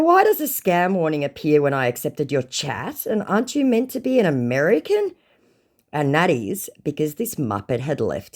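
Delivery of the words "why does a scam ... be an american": pointed retold question, lifting at the end; mildly mocking query; pointed challenge. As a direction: act out challenging a scammer. Acts out own challenge.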